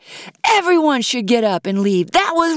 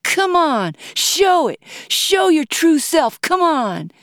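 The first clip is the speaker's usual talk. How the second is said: high, forceful goading shouts; yelling; 9 semitones higher, 4 dB louder than usual. A narrator's reading. Heckler begging the singer for another round, goading yell. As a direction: yell it in insistent bursts. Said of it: "as she yelled".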